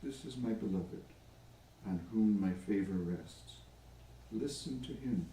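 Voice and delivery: measured telling with long pauses between phrases; scripture storytelling. A narrator's reading. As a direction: let each phrase stand alone. Tells the gospel story aloud.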